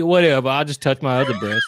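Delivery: dropped back down, offhand; mock indifference. Mimicking friend's changed character, mock indifference. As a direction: shrug it off. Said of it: "what are you changing his character into".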